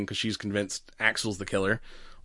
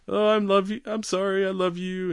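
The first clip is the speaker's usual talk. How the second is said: mock tender apology; 8 semitones higher than usual. Husband's apology after explosion.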